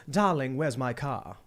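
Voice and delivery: slow Mid-Atlantic accent with dropped R's; lightly done Mid-Atlantic accent. Shown as a demonstration. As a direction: drawl it in a hoity-toity Mid-Atlantic accent. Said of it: "So they'd say".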